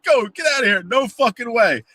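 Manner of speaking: very high panicked squeal, slowing at the end; frantic urging. Retold or imitated. Coworker urging the truck to leave, high panicky squeal. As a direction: beg the driver to get away. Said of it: "He's like".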